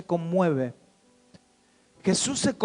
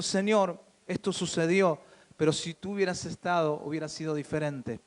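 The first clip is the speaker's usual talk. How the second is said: gentle, not reproachful; 3 semitones lower, 6 dB quieter than usual. Shown as a demonstration. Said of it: "fue como diciendo".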